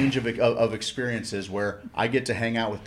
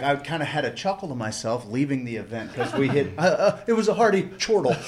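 laughing; 3 semitones higher than usual. Real, not acted. Laughs while telling.

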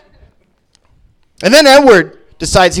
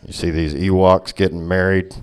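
grumbling bigot Vader; 9 semitones lower, 3 dB quieter than usual. Acted. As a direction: growl it like a bitter has-been villain.

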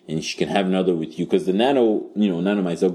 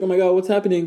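high panicky falsetto; mock panicked woman; 11 semitones higher, faster than usual. Woman confused on waking, mock panic high. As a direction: squeak out a scared question. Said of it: "she's like".

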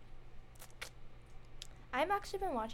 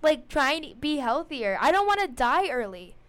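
laughing while talking; 4 semitones higher, 11 dB louder than usual. Real, not acted. Laughing through explanation.

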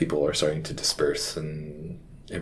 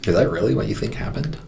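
higher, louder, fast disbelief; incredulous; 4 semitones higher, 4 dB louder, faster than usual. Retold or imitated. Chaplain to grieving mother, higher louder fast incredulous question. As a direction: ask it fast, hardly believing what you heard. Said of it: "sort of incredulously".

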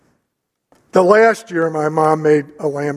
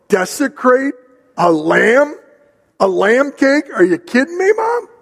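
rising, incredulous "a lamb cake?" with the last word pitched way up; incredulous mock outrage; 5 semitones higher than usual. Son scoffing at his pleading mother over cake, mock incredulous. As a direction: tease mom with exaggerated disbelief.

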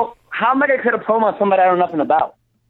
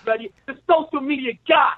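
trash-talking heel, lightly voiced; wrestling promo. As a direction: keep cutting the promo, taunting. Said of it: "cut a promo for one minute".

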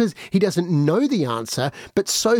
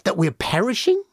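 panicked plea; 3 semitones higher than usual. Acted. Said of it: "they shook him roughly awake, and they said".

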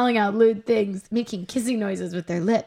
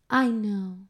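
gentler, kinder reading; nicer; 4 dB quieter than usual. Shown as a demonstration. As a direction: say it kindly. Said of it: "That one was nicer".

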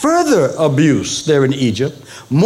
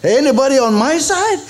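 God's plea; 9 semitones higher than usual. Pretend. Pastor voicing God asking his people for loyalty, a raised pleading call. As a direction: play God gently asking who's on his side. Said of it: "And God is saying".

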